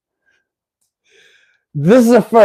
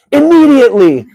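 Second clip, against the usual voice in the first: immediately said much higher and louder, every syllable hit like capitals; all caps shout; 11 semitones higher, 6 dB louder than usual. Acted. Reading Trump's post to chat, shouted all-caps word. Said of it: "all caps".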